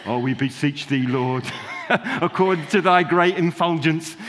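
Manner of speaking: lightly hammed-up archaic pious prayer voice; a hint of a solemn old-style prayer, mocked; mock pompous prayer. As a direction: play a grand churchy pray-er, half laughing. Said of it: "switch on another language".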